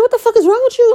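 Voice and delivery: retold high-pitched exasperated outburst; aggravated outburst. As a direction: re-enact losing patience, pitch leaping right up. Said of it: "I got really, really, really, really aggravated".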